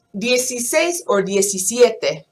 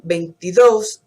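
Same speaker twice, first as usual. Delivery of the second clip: veintidós with the stress on the final dós, a bit louder; 4 dB louder than usual. Shown as a demonstration. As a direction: hit the last syllable of veintidós. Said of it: "put the stress when you pronounce it".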